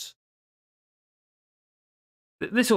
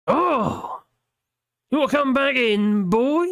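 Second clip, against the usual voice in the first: mocking teasing voice; 9 semitones higher, 4 dB louder, slower than usual. Mocking reply to the plea.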